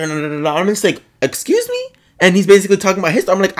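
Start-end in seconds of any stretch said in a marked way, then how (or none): 1.2-1.9 very high, incredulous retold question; squeaked mock outrage; indignant. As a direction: act out offended disbelief, voice shooting up. Retells being offended by excuse.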